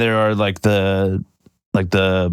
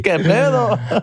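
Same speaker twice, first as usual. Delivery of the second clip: Mexican Spanish; 6 semitones higher, slower than usual. Retold or imitated. Mexican impression.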